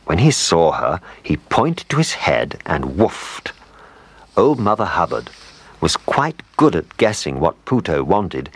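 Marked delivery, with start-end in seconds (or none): none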